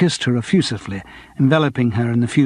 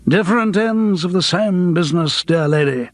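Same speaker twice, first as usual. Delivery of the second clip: a hint of a grand old stage actor; lightly voiced theatrical ham, a touch higher; a touch of pompous thespian grandeur; actor-laddie voice; 4 semitones higher than usual. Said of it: "in his best actor-laddie voice".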